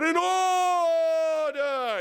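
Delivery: a very long, drawn-out high shout; hammed-up British proclamation scream. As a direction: bellow it out, stretching every sound. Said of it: "you just scream out".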